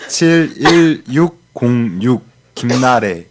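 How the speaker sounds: 사칠일육 with the s sounding like ch; slushy sh for s. Real, not acted. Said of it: "제가 시옷 발음이 안 됩니다".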